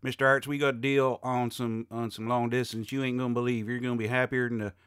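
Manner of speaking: put-on a light Southern US telemarketer accent. Telemarketer pitching long distance, mild Southern US accent. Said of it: "they'll have the Southern accent".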